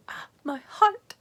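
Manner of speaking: breathless high swoon. Retold or imitated. Reacting to Kaz's confession, swooning. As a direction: gasp it out like your heart melts. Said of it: "And I was like".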